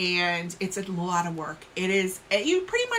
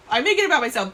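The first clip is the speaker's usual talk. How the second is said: laughing, louder and higher; 5 semitones higher, 7 dB louder, much faster than usual. Real, not acted. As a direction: laugh through the joke. Repeats joke with laugh.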